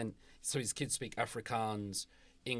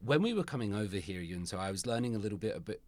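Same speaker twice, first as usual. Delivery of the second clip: ordinary delivery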